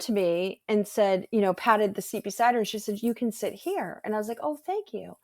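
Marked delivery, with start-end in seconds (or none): 3.0-4.0 softer, hushed invitation. Retold or imitated. Minister whispering to a late arrival, hushed. 4.4-5.2 higher, softer whispered thanks; hushed thanks. Retold or imitated. Late arrival whispering thanks to the minister, hushed.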